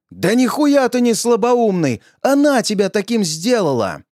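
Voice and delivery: angry retort. Acted. Narrator argues with old woman.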